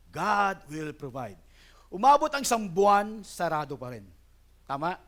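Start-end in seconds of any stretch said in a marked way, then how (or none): 0.1-1.4 slow self-assurance. Retold or imitated. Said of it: "Sabi ko naman sa sarili ko".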